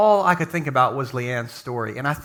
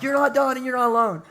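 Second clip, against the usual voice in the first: much higher big-voiced preacher shout; mock pastor yell; 7 semitones higher than usual. Shown as a demonstration. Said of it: "a pastor with a big voice to yell".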